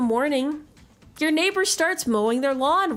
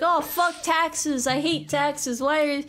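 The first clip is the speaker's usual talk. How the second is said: whiny imitation of tax haters; mock indignant griping, rising at the end; mock complaining; 3 semitones higher than usual. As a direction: grumble like an outraged taxpayer, lightly hammed up. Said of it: "people who are like".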